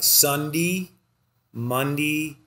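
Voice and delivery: drawn-out Philadelphia accent, days ending in "dee"; nasal Philadelphia accent. Shown as a demonstration. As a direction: say the weekdays in nasal Philly style. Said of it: "talk like that".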